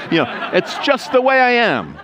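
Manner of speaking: mock it, laughing, with a squeak; laughing mockery. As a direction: scoff at the excuse through a laugh. Mocking an excuse, laughing.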